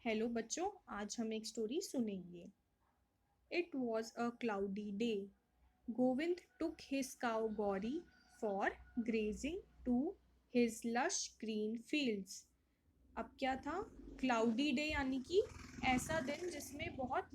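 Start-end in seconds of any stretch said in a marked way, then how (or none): 3.5-12.4 slow, careful read-aloud of the worksheet story; storybook reading voice. A narrator's reading. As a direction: read each phrase slowly for young children.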